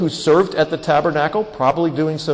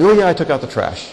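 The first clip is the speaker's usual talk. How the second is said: careless quick reply; 3 semitones higher, 3 dB louder, faster than usual. Retold or imitated. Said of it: "Instead of".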